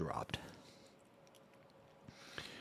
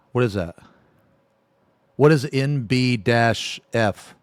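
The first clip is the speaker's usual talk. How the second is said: confused slow question; slower than usual. Real, not acted. Confused about acronym.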